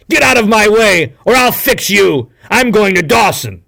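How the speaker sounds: loud, high furious warning; angry threat. A narrator's reading. Hal threatening Thornton to clear the way, loud angry threat. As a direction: push him aside with the words. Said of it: "Hal replied".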